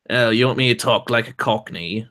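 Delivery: lightly done mock Cockney; Cockney accent. Shown as a demonstration. Answering chat's request to talk Cockney, Cockney accent. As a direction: put on a fake Cockney accent. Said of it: "how's this for a Cockney accent?".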